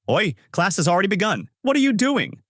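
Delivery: high, urgent calling out; alarmed call. A narrator's reading. Ken spots Takashi through the window, alarmed. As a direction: call out in disbelief, pitch climbing sharply.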